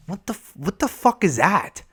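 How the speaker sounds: high, incredulous burst; stunned viewer's disbelief; real outrage. Real, not acted. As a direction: blurt it out in disbelief. Outraged at the show.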